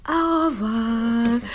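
high, slow French farewell; French phrases. Shown as a demonstration. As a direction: stretch out a sing-song French goodbye. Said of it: "the only French I'm gonna get".

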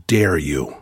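slow, measured mock reprimand; retold rebuke, each word drawn out; stern rebuke. Facilitator rebuking a judgmental student, slow and stern. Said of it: "looked at me and said".

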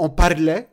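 "parlait" loud, with the R swallowed. Shown as a demonstration. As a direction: punch out "parlait" without a proper R. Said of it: "on dit même pas le R". (« parlait » fort, le R avalé)

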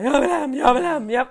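put-on loud, nagging kid's whine; mock child whining to go home. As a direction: nag it like a stubborn child. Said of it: "börjar han ju tjata".

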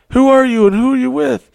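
very high-pitched, loud mimicked question; imitated reporter. Reporters surrounding the men after an interview, imitated shouted question. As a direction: call it out like a pushy reporter.

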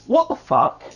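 squeaky outraged curse; high outraged what the fuck. Pretend. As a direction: blurt it out shocked and high. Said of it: "That's what I'm gonna say".

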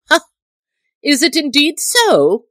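high, loud eager questioning; eager cry. A narrator's reading. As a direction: cry out, keen for news. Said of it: "cried the Tinker eagerly".

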